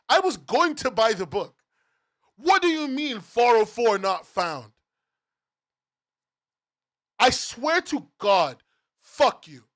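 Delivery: real fuming, emphatic rant; angry. Real, not acted. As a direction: spit out each phrase with outrage. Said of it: "sorry for getting so angry".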